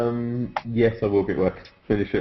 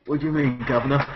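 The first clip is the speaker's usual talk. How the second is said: mock British accent; 4 semitones higher, 4 dB quieter than usual. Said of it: "He's doing the British accent that you guys should be attempting".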